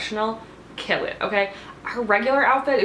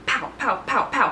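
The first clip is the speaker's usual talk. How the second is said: imitated gunfire; 4 semitones higher than usual. Imitating questions fired like gunshots.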